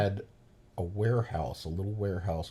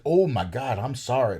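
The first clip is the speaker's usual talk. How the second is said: mock apologetic woman; 5 semitones higher, 8 dB louder than usual.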